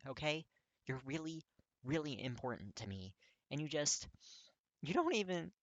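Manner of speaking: high, loud, tearful pleading; voice breaking. Acted. Kirishima confessing to Katsuki, voice breaking into tears. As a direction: plead through tears, voice cracking. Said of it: "his voice breaks, because he's crying".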